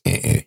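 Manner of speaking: low-key mock buzzer; two short button noises; imitated button noise. Podcaster mimicking a toy red button, imitated buzzer.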